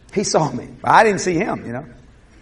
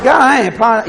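defiant refusal; 5 semitones higher, 6 dB louder, faster than usual. Retold or imitated. Defiant reply to God.

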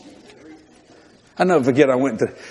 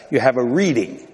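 mock priest; 4 semitones lower than usual. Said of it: "That's how the Catholics say".

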